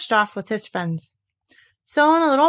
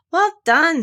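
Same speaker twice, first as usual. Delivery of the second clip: kind; 8 semitones higher, 6 dB louder than usual. A narrator's reading. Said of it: "said Rabbit kindly".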